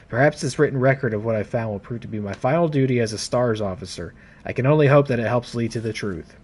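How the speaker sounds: read-aloud log, measured and formal; reading a report. Acted. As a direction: narrate it like an officer's written record. Reads Jill's report aloud.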